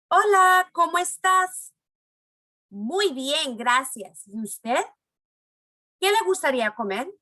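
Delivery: lightly acted restaurant dialogue; voicing waiter and client. Shown as a demonstration. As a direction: read both parts of the dialogue. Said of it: "I'm gonna read all the sentences first to you".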